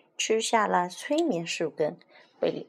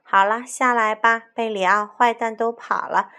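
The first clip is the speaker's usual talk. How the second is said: louder call to someone in a tree; 4 semitones higher, 7 dB louder than usual. Acted. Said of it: "卡梅利多在树下喊".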